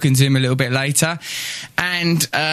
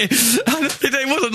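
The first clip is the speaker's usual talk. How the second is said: slow drawl; 8 semitones higher, much slower than usual. Real, not acted. Drawn out sarcastic aside.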